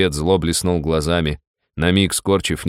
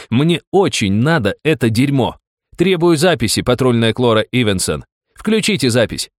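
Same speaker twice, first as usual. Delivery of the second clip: crazed loud demand; 6 semitones higher, 3 dB louder than usual. A narrator's reading.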